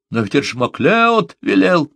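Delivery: mild shout. A narrator's reading. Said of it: "крикнул Джонсон".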